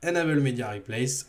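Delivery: English product name with French pronunciation; French-accented English. Real, not acted. Presenter repeating the extension's name, French accent. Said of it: "Quel bel accent anglais".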